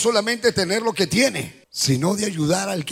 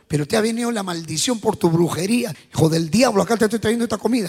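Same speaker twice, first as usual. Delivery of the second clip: scornful neighbor; faster than usual. Retold or imitated. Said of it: "No, no es así".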